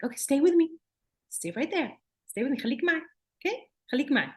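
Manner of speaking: put-on steady the child plainly; matter of fact. Shown as a demonstration. Therapist grounding a hyperaroused child, matter-of-fact. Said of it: "it's more of a matter of fact".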